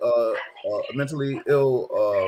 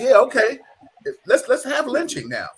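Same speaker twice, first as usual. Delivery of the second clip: mock approval; 9 semitones higher, 5 dB louder than usual. Imagined reply of those in power.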